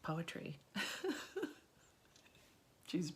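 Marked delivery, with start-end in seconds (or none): 0.6-1.5 high, breathy little laugh; short airy giggle. Real, not acted. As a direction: laugh lightly at your own words. Laughs at her own clumsy wording.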